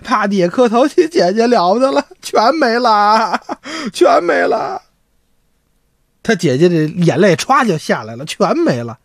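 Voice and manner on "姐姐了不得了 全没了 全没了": slow wailing lament. Acted. Son wails news kneeling.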